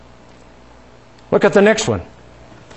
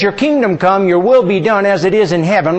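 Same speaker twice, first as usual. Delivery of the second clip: the prayer said as a firm statement, "Your kingdom come"; confident confession. Shown as a demonstration. Pastor leading the church in a confession of faith, firmly. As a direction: declare "Your kingdom come" as fact, not request. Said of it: "how about making it a confession".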